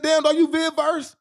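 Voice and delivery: high, slow, loud calling him out; high triumphant gotcha; caught-you accusation. Retold or imitated. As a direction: stretch it out, gleeful and accusing. Confronting the anonymous troll.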